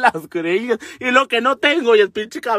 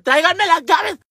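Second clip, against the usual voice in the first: high, urgent call; raised voice, acted panic; 9 semitones higher, 3 dB louder than usual. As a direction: call out for the keys as if across a yard. Calls again for the keys.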